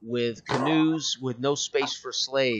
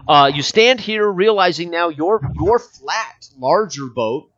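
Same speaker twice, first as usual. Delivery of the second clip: raised, emphatic scene narration; game master scene-setting; 4 semitones higher, 7 dB louder, slower than usual. Acted. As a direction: announce the scene to the players.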